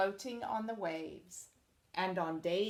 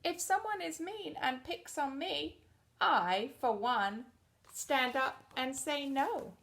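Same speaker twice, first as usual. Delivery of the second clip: brave One; 6 semitones higher than usual. Acted. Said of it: "One turned to the colors and said".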